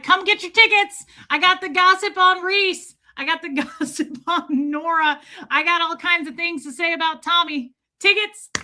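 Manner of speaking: high, loud hawking of gossip; mock ticket scalper. Streamers selling members-only gossip like tickets, mock scalper's call. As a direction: imitate a scalper pitching to passers-by. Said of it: "he becomes a scalper".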